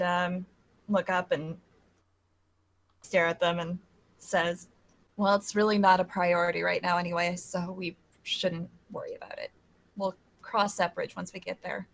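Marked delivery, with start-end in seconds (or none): 5.2-11.9 dismissive. Acted. Character putting off the crew's worry, quietly dismissive. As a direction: set the worry aside quietly.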